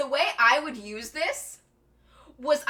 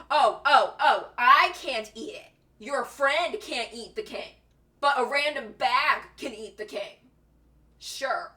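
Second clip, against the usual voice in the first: mock indignation. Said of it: "she was so mad at them".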